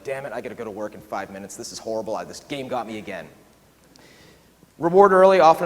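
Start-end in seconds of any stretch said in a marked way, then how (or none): 0.0-3.3 groggy gamer sigh. Retold or imitated. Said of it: "they're like".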